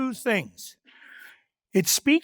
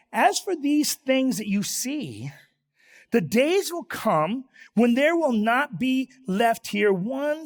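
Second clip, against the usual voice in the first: scripture reading; 3 semitones higher than usual. Acted. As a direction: read it out deliberately, stretching key phrases. Reads scripture aloud to congregation.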